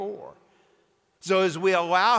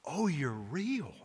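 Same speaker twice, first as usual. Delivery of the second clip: slow, breathless whisper; hushed wonder as she realises; awed whisper; 8 dB quieter, slower than usual. A narrator's reading. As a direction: whisper it, barely believing. Susan's awed reply in story.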